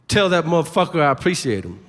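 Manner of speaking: mildly angry, punched gratitude; mock-angry thanks. Football player thanking a fan's dad, mildly angry. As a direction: thank him as if threatening him. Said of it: "angrily being like".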